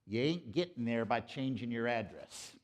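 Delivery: light mock Southern US accent; attempted Southern accent. Speaker now living in Atlanta trying out a Southern accent. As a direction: have a go at a folksy Southern accent. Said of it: "my best attempt at a Southern accent".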